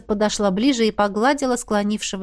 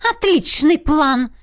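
hissing whisper; 8 semitones higher, 5 dB louder, slower than usual. A narrator's reading. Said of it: "зло прошипела принцесса".

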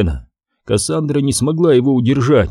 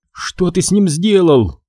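shouted demand; 7 semitones higher than usual. A narrator's reading. Кассандра shouts at Макс demanding an answer. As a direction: shout the question at him. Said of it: "выкрикнула Кассандра".

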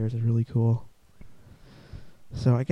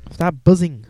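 annoyed shout; 5 semitones higher, 12 dB louder than usual. Real, not acted. Podcaster yells at a buzzing insect, annoyed shout. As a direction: shoo the buzzing bug away.

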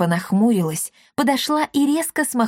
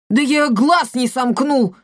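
justifying; 5 semitones higher, 4 dB louder than usual. Acted. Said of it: "принялся оправдываться".

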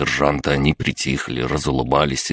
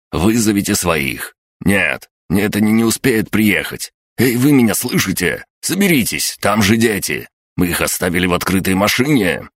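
raised, higher-pitched alarmed voice; urgent shouting; 5 semitones higher than usual. A narrator's reading. Sergeant begs panicking Sidorovets to think of the children, urgent shouting. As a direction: cry out urgently, trying to make him snap to. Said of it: "закричал".

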